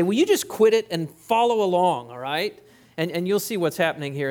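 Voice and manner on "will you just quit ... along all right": exasperated pastor. Retold or imitated. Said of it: "you just want to say".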